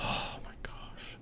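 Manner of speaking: unvoiced, slow breathy gasp; whispered longing. Real, not acted. Hungry host whispering over fast food, slow hush. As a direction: whisper it like you're starving. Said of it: "craving food".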